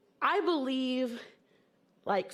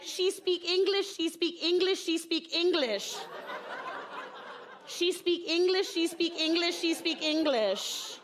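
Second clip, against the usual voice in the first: higher, repeating it over and over, a hint of the mom's accent; insistent repeating mom; 6 semitones higher than usual. Mom insisting to the kindergarten teacher, lightly imitated repeating. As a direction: hammer the phrase home until the teacher gives in. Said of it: "She just repeats phrases".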